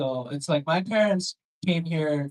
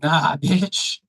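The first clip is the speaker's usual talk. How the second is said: sassy Siri voice; 5 dB louder, slower than usual. Retold or imitated. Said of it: "And she's like".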